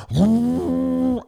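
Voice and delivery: a high, loud whooping holler; imitated whoop. Retelling a highway race, imitating the other driver's high whoop. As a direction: mimic the pickup driver's gleeful yell as he floors it. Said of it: "and I just heard".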